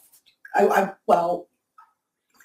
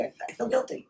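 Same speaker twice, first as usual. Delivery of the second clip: choked up. Real, not acted. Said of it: "I'm not gonna get emotional here".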